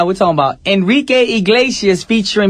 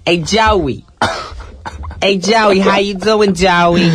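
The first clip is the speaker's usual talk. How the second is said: mock Jersey Italian accent, pitched up a touch; Italian-American accent; 4 semitones higher, much slower than usual. Strong Italian greeting Joey, mock Italian-American accent. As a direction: hail a buddy in playful Italian-American. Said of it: "the strong Italians, like".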